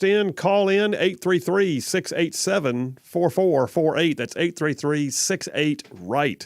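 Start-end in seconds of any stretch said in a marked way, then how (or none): 0.9-1.8 phone number read. Shown as a demonstration. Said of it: "always say I read it too fast". 1.8-5.9 quick first read of the number; read fast. Shown as a demonstration. Host's first pass at the phone number, brisk. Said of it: "always say I read it too fast".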